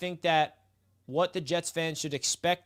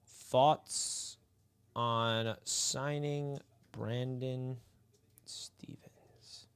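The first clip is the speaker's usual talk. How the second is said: slow, trailing into a whisper; slow hush on the player's name; dramatic fading whisper; 4 semitones lower, 6 dB quieter, much slower than usual. Acted. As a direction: let the name die off in a whisper. Poll question drama.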